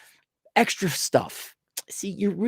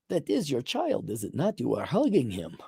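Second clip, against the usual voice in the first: quiet menace; 11 dB quieter than usual. Pretend. Assassin threatening family.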